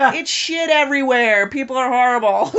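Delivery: loud, high, slowed exasperated cry; mock-exasperated announcement; mock outcry. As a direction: proclaim it high and loud, laugh creeping in. Voices what they needed telling.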